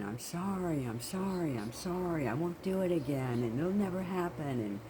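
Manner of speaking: imitating a girl pleading "I'm sorry"; begging. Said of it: "she just was begging him".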